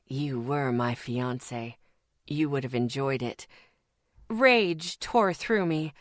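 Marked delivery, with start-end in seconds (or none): 0.0-3.5 taunting. Acted. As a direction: draw it out to wound her. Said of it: "it taunted".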